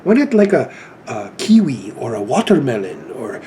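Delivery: rough imitation of a British teacher; mock-British questioning; British accent. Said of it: "Excuse my British accent".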